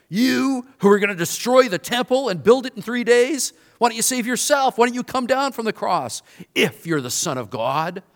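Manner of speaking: high, loud jeering crowd voice; taunting onlookers, high and loud; mocking taunt. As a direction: sneer it up at the cross. Mockers taunting Jesus on cross.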